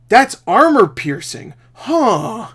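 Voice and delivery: hammy delivery of a badly acted line; bad voice actor. Reviewer mocking a movie's voice acting, hammy bad acting. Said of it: "this voice actor is giving me cancer".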